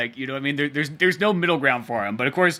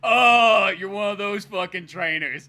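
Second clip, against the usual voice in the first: dismissive scoff; 4 semitones higher, 4 dB louder than usual. Retold or imitated. Blue's dismissive retort.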